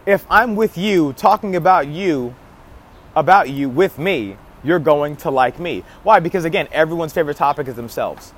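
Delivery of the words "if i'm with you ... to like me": slower, deliberate repeat with pauses between phrases; measured delivery, spaced out for clarity; slowed down. Shown as a demonstration. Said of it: "slow it down".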